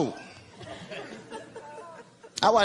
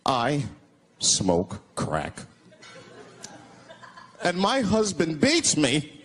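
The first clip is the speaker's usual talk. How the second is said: mock crying ad lady; 4 semitones lower, much slower than usual. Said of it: "She's crying".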